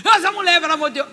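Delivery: high, loud exasperated cry; exasperated anger. Retold or imitated. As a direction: burst out in irritation. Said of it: "Mas uma raiva". (exasperação alta e aguda)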